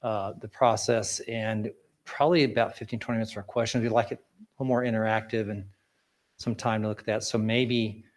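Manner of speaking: muffled behind a mask; through a face mask. Real, not acted. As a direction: talk through a cloth mask. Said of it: "hard to read through the mask".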